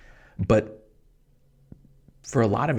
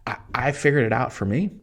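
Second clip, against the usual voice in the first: excited; 3 semitones higher than usual. Real, not acted. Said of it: "can you tell I'm excited?".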